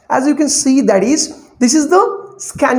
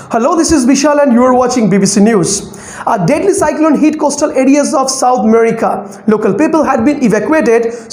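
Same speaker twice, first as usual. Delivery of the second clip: news anchor reading in measured phrases; news reading with scanning. Shown as a demonstration. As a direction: read the script like a news anchor. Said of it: "try to understand what is the scanning".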